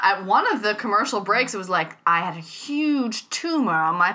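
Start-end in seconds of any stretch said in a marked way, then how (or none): 2.1-4.1 dramatic documentary voice. Retold or imitated.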